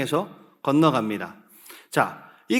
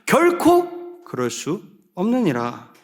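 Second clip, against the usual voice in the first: slow, emphatic quoted declaration; measured, resolute scripture quote; firm denial; slower than usual. Acted. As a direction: state it slowly and decisively. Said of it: "분명하게 말하고 있습니다".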